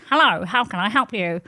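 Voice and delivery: lightly voiced polite assistant; formal chatbot. Changed chatbot greeting its user, lightly mocked formal assistant. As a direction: imitate a helpdesk greeting. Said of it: "the personality completely changed".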